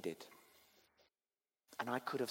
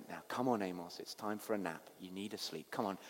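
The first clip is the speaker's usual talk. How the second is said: gentle coaxing; 4 semitones lower, 7 dB quieter, faster than usual. Retold or imitated. Coaxing a baby in retold story.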